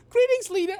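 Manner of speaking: very high, loud put-on greeting; overdone grand voice that doesn't quite land; attempted character voice. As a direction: strain up high for a pompous greeting. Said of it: "I can't do the fucking voice".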